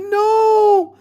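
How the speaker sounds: high frightened refusal; scared no. Retold or imitated. Sister refusing brother's urging, frightened. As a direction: refuse in fear.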